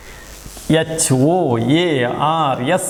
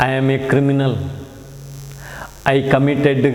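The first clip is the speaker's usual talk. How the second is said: low, rough prisoner voice, much lower; hoarse convict; 7 semitones lower, faster than usual. Acted. Teacher acting the convict's confession, low and rough. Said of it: "With the rough voice".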